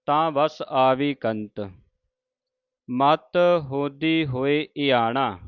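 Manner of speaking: measured, slow, devout reading of the verse; slow scripture recitation. Acted. Teacher reciting Farid's shalok to the sangat, slow and devout. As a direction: chant each phrase carefully with pauses.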